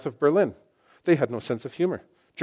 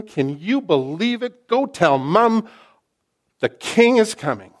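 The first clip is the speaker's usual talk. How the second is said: excited announcement; 8 semitones higher, 5 dB louder, slower than usual. Retold or imitated. Excited crowd voiced in retelling.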